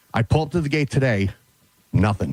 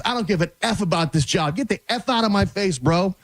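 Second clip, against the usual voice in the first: mock yell; 5 semitones higher than usual. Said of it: "Screaming at me".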